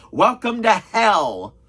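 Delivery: slow, drawn-out joking welcome; ominous greeting, played as a joke; mock-ominous welcome. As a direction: stretch it out like a mock warning. Jokey greeting to convention newcomer.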